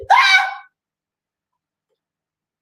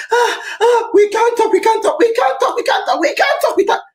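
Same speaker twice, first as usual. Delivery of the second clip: higher, fast, panicky mock chant; higher fast mocking we can't talk; mocking fearful crowd; 5 semitones higher, faster than usual. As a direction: parody of people too scared to speak.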